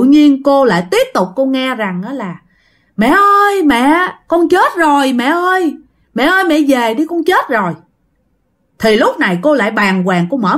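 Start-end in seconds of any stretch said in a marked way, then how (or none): 3.0-7.7 high, eerie, hollow calling from beyond; ghostly wail. Acted. Dead daughter's ghost calls her mother in an eerie high wail. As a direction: cry out like a dead girl's spirit.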